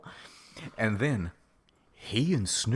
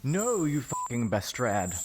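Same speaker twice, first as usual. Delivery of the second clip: mock yell; 5 semitones higher than usual. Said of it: "I yielded".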